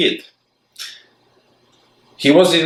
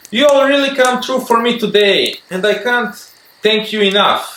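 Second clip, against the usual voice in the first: gratefully; 9 semitones higher than usual. Acted. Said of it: "Charlie said gratefully".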